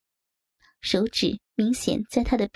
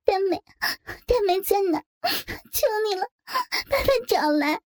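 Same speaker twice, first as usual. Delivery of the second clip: high, tearful pleading through sobs; pitiful sobbing; 11 semitones higher than usual. A narrator's reading. Frightened bridesmaid pleading tearfully for her friend, sobbing. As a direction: beg through the tears, voice way up. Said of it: "楚楚可怜地抽泣着说".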